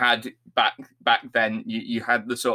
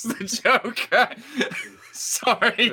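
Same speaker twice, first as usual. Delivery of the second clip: high, laughing apology; 10 semitones higher, slower than usual. Real, not acted. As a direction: giggle through it. Laughing at own joke.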